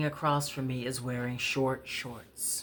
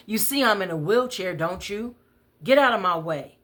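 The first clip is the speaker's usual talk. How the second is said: loud, higher, fast hectoring; raised voice, losing patience; angry yell; 5 semitones higher, 5 dB louder than usual. Retold or imitated. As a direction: berate her to get past. Angry man in wheelchair yelling.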